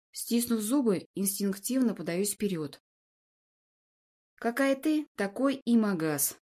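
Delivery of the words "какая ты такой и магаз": scornful snort. Acted. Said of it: "фыркаю пренебрежительно".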